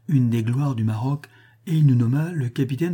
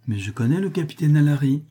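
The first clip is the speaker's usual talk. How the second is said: higher, lightly exclaimed; sudden exclamation; 4 semitones higher than usual. Acted. Young woman to the captain who praised Alary, exclaiming. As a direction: blurt it out in sudden recognition. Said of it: "Tout à coup, elle s'écria".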